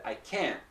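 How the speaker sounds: "can't" stopped short at the end; unreleased T. Shown as a demonstration. Teacher answering the quiz, "can't" with no release. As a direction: hold back the T of "can't". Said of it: "the T is not released".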